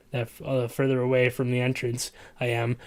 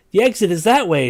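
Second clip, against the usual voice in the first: screaming; 6 semitones higher, 7 dB louder than usual. Acted. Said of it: "she screams".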